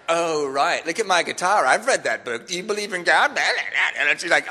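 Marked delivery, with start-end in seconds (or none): 0.1-2.5 imitating an irritated woman; mildly mocking mimicry; mad, mocking. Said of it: "like, really mad at me". 2.5-3.4 imitated indignant woman; mad, mocking. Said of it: "like, really mad at me".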